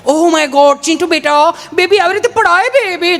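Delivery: high cooing mother voice; mother fussing over her fallen son, high and cooing. Retold or imitated. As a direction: coo over the fallen baby.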